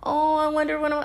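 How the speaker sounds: high, put-on lovesick swoon; mock a dreamy romantic in a high voice; hammed-up lovey-dovey wondering. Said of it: "that lovey-dovey, like".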